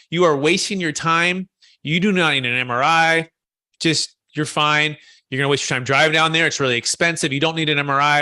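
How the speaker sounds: firm, emphatic retold insistence; imitating a doctor's confident brush-off; insistent, convincing doctor. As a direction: lay it down like a doctor dismissing a worry. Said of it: "he's very convincing".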